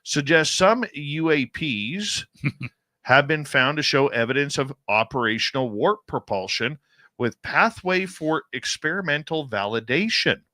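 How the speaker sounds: emphatic breaking-news headline read. Real, not acted. Host reading UFO study news to co-host, news read. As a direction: read out the headline with measured punch. I'm gonna read this to you.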